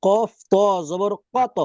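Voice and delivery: কত said slowly, with the final ত bounced; slow drill of কত with a bounced ত; qalqala demo. Shown as a demonstration. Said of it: "আমরা উদাহরণ দেখি". (কলকলা সহ ধীরে কত)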